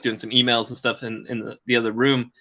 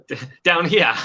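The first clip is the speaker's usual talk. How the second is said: put-on playful Australian accent, raised pitch; 4 semitones higher than usual. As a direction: lay on a jokey Aussie accent. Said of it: "It's my Australian accent".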